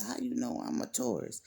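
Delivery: high, curious woman asking; woman's voice. Retold or imitated. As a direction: pitch it up like the surprised woman.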